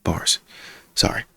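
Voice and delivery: a hushed joke; a hushed joking aside; whispered aside. Real, not acted. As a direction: whisper it to yourself. Joke after lyric.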